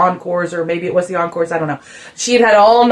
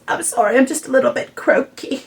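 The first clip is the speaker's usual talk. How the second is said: imitating Beth; 5 semitones higher, 3 dB quieter than usual. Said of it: "she says".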